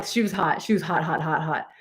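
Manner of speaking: dropped low and soft, gossiping under her breath; hushed aside. Real, not acted. Telling viewers the girl was hot, in a hushed aside. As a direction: lean in and murmur it like a secret. Gossiping about the girl's looks.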